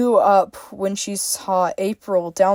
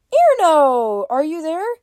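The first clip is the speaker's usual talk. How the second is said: calling out; 9 semitones higher, 4 dB louder than usual. A narrator's reading. Freya calling at the hut.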